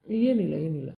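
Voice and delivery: tearful reassurance through sobs; crying. Acted. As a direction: choke out the words while weeping. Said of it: "ಅಕ್ಕ, ಅಳ್ಬೇಡ ಅಕ್ಕ".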